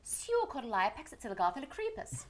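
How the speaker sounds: the long word said backwards, syllable by syllable; backwards speech. Shown as a demonstration. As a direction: read supercalifragilisticexpialidocious reversed. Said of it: "And then we say it backwards".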